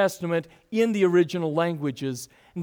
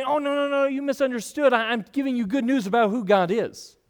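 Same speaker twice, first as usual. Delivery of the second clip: lightly voiced, higher, apologetic take-back; mock backpedalling Jesus; 5 semitones higher than usual. Preacher voicing a Jesus who never spoke like this, mock apologetic. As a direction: play the pastor's pretend Jesus hurrying to explain himself. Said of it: "he doesn't say".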